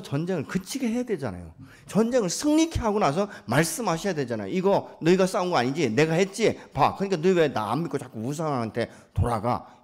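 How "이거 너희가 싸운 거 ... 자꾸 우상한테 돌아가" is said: loud, raised scolding; scolding God. Acted. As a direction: rebuke them as an exasperated God. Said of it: "이러면서 꾸짖으시는". (꾸짖는 목소리)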